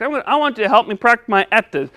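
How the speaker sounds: fast, with "S's" as "etteth". Pretend. Puppet asking for help, lisping "S's" quickly. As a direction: rush it and turn the sounds in "S's" to T. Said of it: "help you say your S".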